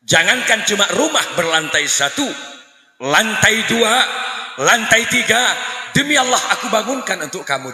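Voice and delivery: husband sweet-talking an angry wife. Retold or imitated. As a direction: coax her with grand promises. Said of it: "Peluk istrinya".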